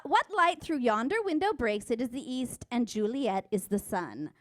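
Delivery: mock verse reading; quoting Romeo. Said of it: "He didst say this".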